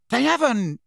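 high, unsure denial; unconvinced Dudley. A narrator's reading. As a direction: insist without believing it. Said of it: "didn't sound completely convinced".

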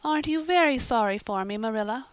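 high, pleading plaintive voice. Acted. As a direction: beg for sympathy from bed. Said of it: "a plaintive voice".

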